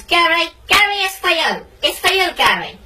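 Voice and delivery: imitated wife calling to her husband. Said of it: "she calls to me".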